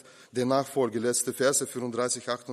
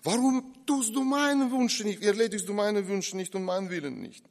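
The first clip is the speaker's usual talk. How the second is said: complaining believer; 8 semitones higher, 3 dB louder than usual. Retold or imitated. Believer voiced complaining to Jesus.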